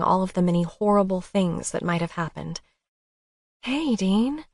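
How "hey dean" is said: cooing. Acted. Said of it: "I cooed".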